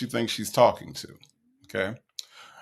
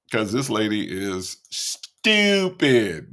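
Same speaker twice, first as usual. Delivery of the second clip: slow scornful aside; 5 semitones lower, much slower than usual. Real, not acted. Mocking the scam victim.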